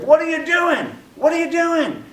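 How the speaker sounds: high, loud mock outrage; high-pitched indignant mock shout; retold yelling. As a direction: yell it accusingly, imitating the woman. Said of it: "She starts yelling at me".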